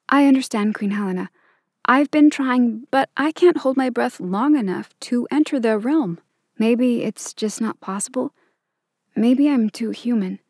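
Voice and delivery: put-on a nervous teen answering a queen; young girl voice.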